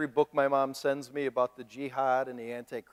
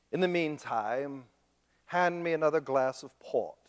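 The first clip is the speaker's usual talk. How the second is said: mock snob; 2 semitones lower, 4 dB quieter than usual. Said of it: "That's how they talk".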